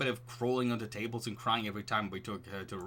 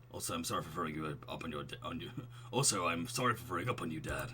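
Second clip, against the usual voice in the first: put-on softer, lower baby talk; 6 semitones lower, 5 dB quieter than usual. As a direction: apologize like a tiny baby. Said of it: "doing the baby voice".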